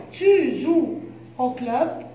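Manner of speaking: slow, with a rising question tune on "club"; teacher modelling rising intonation, slowly. Shown as a demonstration. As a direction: let "Tu joues au club?" climb at the end like a question. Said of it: "j'ai fait une question avec l'intonation".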